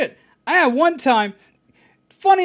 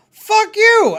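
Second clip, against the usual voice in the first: high yelled curse; mock angry yell; 11 semitones higher, 8 dB louder than usual. Scam caller yells at him, mock angry yell. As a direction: bark it out, hammed-up. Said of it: "he just whips up and goes".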